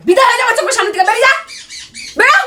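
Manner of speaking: fast furious get-out order; angry dismissal. Real, not acted. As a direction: drive him out the door, fast. Wife throws husband out.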